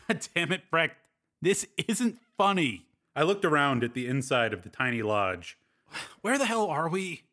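fed up with his teasing friend; exasperated. Acted. Hero angry, frustrated.

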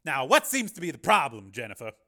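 calm question. A narrator's reading. Carmen greeting the intruding Jennifer, calm and polite. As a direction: feign mild interest. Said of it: "he asked calmly".

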